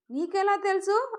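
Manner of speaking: high, startled question; surprised. Acted. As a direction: caught off guard by the aunt. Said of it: "ఆశ్చర్యంగా చూశాను". (ఆశ్చర్యంగా పై స్వరంలో ప్రశ్న)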